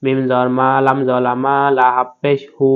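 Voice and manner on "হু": "হু" with a lengthened vowel; long drawn "হু"; three-alif stretch. Shown as a demonstration. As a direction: hold the vowel of "হু". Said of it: "তিন আলিফ টেনে পড়তে হবে".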